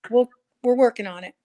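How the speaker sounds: talking through a phone line; phone call sound, slightly distant; over the phone. Real, not acted. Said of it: "I'm on my phone right now".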